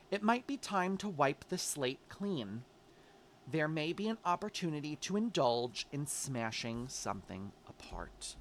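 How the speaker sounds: measured, deliberate read-aloud with pauses; oracle card reading. Real, not acted. Reader delivers the oracle card's message to Leo, measured reading.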